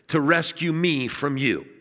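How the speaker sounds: chuckling through the last words; amused jab at his friend; laughing punchline. Retold or imitated. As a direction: let a laugh break through the tease. Punchline of Jim's quoted joke.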